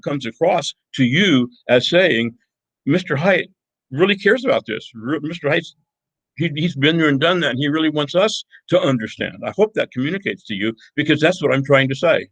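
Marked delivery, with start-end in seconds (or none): 2.8-9.4 higher-pitched voice of an impressed student; imagined admiring student. Retold or imitated. Teacher voicing what students might say of him, admiring. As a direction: speak up for a teacher who really cares.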